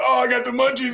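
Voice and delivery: high, goofy mock stoner voice; mocking older players who just started smoking. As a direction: lampoon a late-blooming smoker. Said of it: "but they're like".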